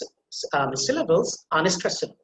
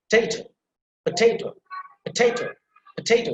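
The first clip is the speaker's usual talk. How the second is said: "potato" higher, with emphasis on the TA syllable; stress on TA; 5 semitones higher than usual. Shown as a demonstration. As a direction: lean on the middle TA of "potato". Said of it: "that will emphasize".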